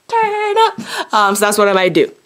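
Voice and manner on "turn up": high, sung-out hype chant; party call. Pretend. Vlogger psyching herself up for Saturday, high hype chant. Hyping up her Saturday plans.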